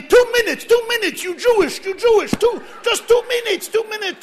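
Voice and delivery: loud mock hawker's cry; street hawker shout. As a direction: pull in passers-by with a shout. Chabadniks call out to travellers.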